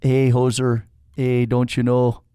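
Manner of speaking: lightly put-on Wisconsin accent; a hint of Upper Midwest drawl, slow. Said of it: "summons my Wisconsin accent".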